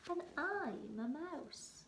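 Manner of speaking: high, slow squeaky mouse. Acted. Mouse answering the troll, high and small.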